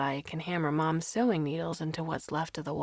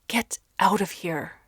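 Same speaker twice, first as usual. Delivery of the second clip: screaming; 3 semitones higher, 4 dB louder than usual. A narrator's reading. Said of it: "she screams".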